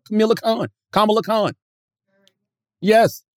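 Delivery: normal talking voice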